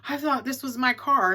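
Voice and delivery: high and loud at first, then settling toward normal; flustered apology. Retold or imitated. Stranger caught opening the wrong car apologizing, high flustered gush fading down. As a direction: gush out a startled sorry, calming as you go. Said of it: "And she goes".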